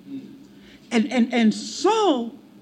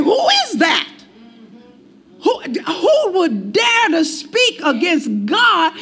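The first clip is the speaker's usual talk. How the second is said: indignant challenge; 3 semitones higher, slower than usual. Retold or imitated. David outraged at Goliath's taunts.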